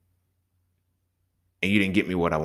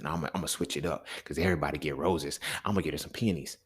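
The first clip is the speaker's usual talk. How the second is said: quiet mock voice; 4 semitones lower, 9 dB quieter than usual. Acting a clueless gift giver.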